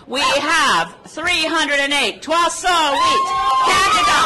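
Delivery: triumphant announcement. Real, not acted. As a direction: announce it like a victory. Big announcement at rally.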